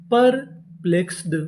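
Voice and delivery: slow, drawn-out परप्लेक्स्ड, syllable by syllable; slow sounding out. Shown as a demonstration. Teacher sounding out the word slowly for students. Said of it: "परप्लेक्स्ड का मतलब होता है".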